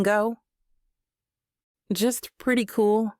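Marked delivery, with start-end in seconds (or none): 1.9-3.1 incredulous. Acted. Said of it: "I say incredulously".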